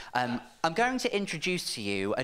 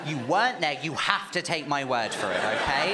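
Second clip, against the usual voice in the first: laughing; 3 dB louder than usual. Real, not acted.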